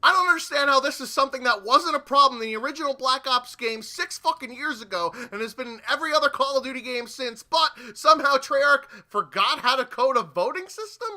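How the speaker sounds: loud ranting, pitch jumps on system; angry rant. Real, not acted.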